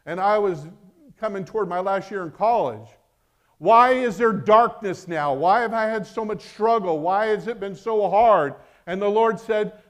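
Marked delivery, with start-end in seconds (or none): 3.6-8.5 pleading prayer. Retold or imitated. Retold pleading prayer to God.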